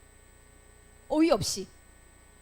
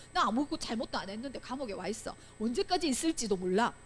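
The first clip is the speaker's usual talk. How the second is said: understated, softer plea; wronged lament; 4 dB quieter than usual. Acted. Teacher voices the falsely accused prisoner praying, understated lament. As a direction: quietly act out a prisoner questioning God. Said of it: "억울하고 누명을 쓰고".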